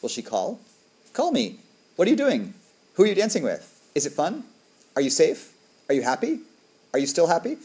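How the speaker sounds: high, worried stream of questions; mother imagining questions for her daughter abroad, high and anxious. Retold or imitated. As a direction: fret over a faraway daughter. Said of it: "and every day I'm like".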